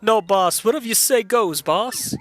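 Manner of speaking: lightly voiced goon, eagerly backing down; henchmen grovelling. Henchmen apologizing to the boss, grovelling goon voice. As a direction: play a goon who tags boss onto everything.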